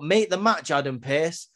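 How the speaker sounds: a hint of a commanding champion; lightly voiced Gunther barking an order; mock Gunther demand. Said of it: "Gunther's like".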